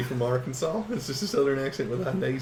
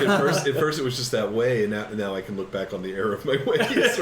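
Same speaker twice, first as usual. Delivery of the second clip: laughing through a quote; 6 dB louder than usual. Retold or imitated. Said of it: "he's like".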